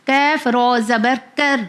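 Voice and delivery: slow spelling with a thin k in کیف and کر; کیف with a light front k, not a round q; thin kaf sound. Shown as a demonstration. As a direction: keep کیف thin, mouth unrounded. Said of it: "اس کی sound جو ہوگی پتلی ہوگی".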